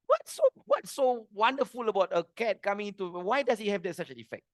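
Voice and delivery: mildly baffled imitation of a son; bewildered son. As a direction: question it in puzzlement, dropping away at the end. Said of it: "his son was bewildered".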